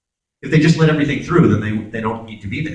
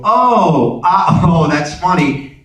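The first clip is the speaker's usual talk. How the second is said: higher, louder, laughing it off; amused mock reaction; 5 semitones higher, 4 dB louder, much slower than usual. Viewer catching the double entendre, amused laugh. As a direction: chuckle at a clever joke. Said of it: "and you go".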